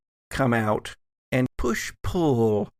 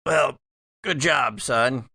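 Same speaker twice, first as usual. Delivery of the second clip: sarcastic. Acted. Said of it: "he was being very sarcastic".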